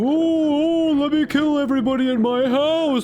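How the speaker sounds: exasperated outburst. Real, not acted. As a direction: blow up at the game in disbelief. Game went wrong, frustrated outburst.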